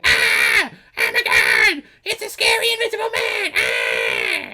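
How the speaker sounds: over-the-top mock scream of fright; mock screaming innkeeper. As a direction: send up a panicky old innkeeper screaming. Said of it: "she is constantly screaming".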